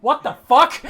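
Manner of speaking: high, yelled disbelief; loud shocked outburst. Acted. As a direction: blurt it out in shock at full volume. Colm repeats it, escalating.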